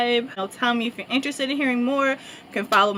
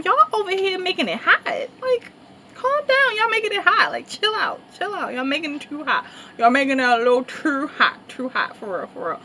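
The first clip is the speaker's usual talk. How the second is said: high, urgent telling-off; imitated hushing; 5 semitones higher than usual. Telling the crowding girls to calm down, high and urgent. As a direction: shoo the fans off, voice pitched high.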